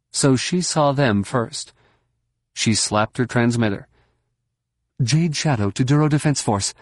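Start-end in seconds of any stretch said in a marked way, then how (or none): 5.0-6.7 calling out. Acted. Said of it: "she called".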